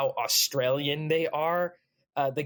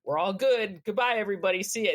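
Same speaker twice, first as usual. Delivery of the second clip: higher, cheery mock farewell; mock breezy sign-off; 6 semitones higher, faster than usual. Voicing the US signing off on Skylab, breezily. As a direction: wave it off breezily, pitched up.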